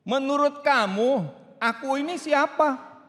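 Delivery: high, slow pointed question; challenging question. Acted. God asking the listener back, pointed and slow. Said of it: "saudara dibalikin tanya".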